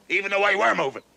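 building from plain to shouting; rising complaint. Acted. Aching jaw, rising complaint.

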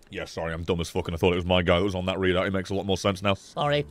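low, quiet embarrassed apology; sheepish mumble. Real, not acted.

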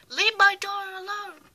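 high, loud, fierce command; wicked stepmother. Acted. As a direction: order the villain away. Mother confronts villain.

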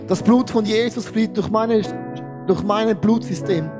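ordinary talk, nothing marked

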